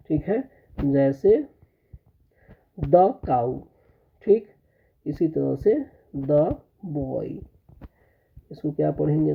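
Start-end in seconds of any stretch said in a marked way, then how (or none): 2.8-3.6 "the" said short, as "द" before cow; short "द" before a consonant; the as "thuh". Shown as a demonstration. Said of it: "तो इसको द पढ़ेंगे". 6.2-7.5 put-on "the" short "द" before boy; the as "thuh". Shown as a demonstration. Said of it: "तो इसको द पढ़ेंगे".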